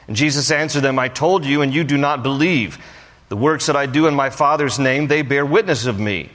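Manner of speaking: measured Bible reading voice; scripture reading. Acted. Pastor reading scripture to the congregation, measured. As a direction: read the passage to the congregation.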